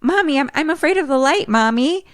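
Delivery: put-on high, scared child's voice; frightened little girl. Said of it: "Carol Ann says".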